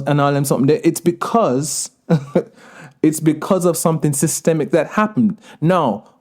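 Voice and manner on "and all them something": casual Jamaican patois filler. Real, not acted. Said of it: "all them something is a patois thing".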